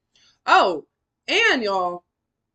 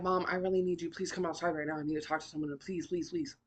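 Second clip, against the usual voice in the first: soft pleading; 3 semitones lower, 8 dB quieter than usual. Retold or imitated. Begging mom after being beaten.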